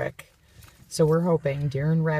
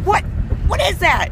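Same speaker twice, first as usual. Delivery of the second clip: mock alarm; 13 semitones higher, 5 dB louder than usual. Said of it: "And he's like".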